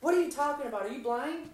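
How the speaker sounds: mock the kid snapping back; defensive driver. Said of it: "He's like".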